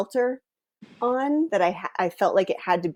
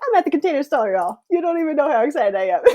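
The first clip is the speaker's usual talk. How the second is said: excited; 8 semitones higher, 3 dB louder, faster than usual. Retold or imitated. Self-quote about fun store trip.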